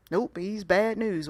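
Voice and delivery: slow, lightly Southern refusal; a hint of Southern, drawn out; Southern accent. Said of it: "I used a Southern accent".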